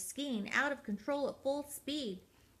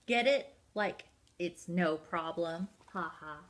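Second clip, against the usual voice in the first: pleased with his joke; 3 semitones lower than usual. Acted. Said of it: "cracking himself up".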